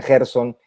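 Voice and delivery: "Gerson" as "HER-son", opening with a jota; jota pronunciation. Shown as a demonstration. Guest listing how people say his name, "Gerson" as "Herson". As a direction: say "Gerson" with an H-like first sound. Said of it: "personas que lo pronuncian".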